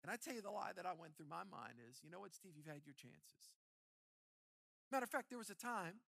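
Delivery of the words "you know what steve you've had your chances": quiet inner voice. Retold or imitated. The lie in his mind.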